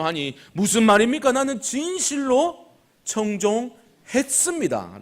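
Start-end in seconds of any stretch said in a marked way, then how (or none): 1.3-5.0 high, drawn-out self-justifying claim; slow, raised-pitch mock protest of innocence; brazen insistence. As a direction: insist shamelessly, stretching the words out. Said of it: "뻔뻔하게 그런 대답을 하고 있는".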